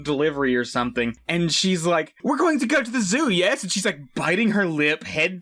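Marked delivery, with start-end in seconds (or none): 2.2-3.6 flirty. Retold or imitated. Paquita flirting, acted.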